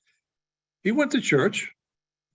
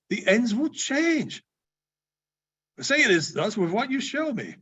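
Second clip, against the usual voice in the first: put-on old man's trembling plea, slightly raised; pleading Scrooge; 5 semitones higher than usual. Scrooge begging the ghost, a touch higher and pleading. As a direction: beg the silent ghost to say it's not so.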